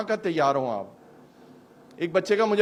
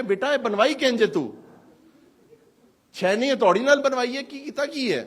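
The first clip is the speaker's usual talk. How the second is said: teasing, laughing; 6 semitones higher, 4 dB louder than usual. Retold or imitated. Mocking teasing question to a youth.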